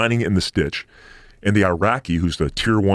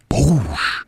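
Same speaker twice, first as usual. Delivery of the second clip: rocket boom; 4 semitones higher than usual. Retold or imitated. Imitating rocket impact.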